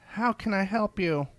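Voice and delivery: high, bright and eager to serve; a chirpy barista creature greeting. Acted. Cat-eared barista greets a customer, high and bright. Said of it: "it said brightly".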